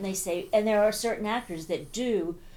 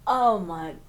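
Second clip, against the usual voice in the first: dismayed; 3 dB louder, slower than usual. Retold or imitated. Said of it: "it went".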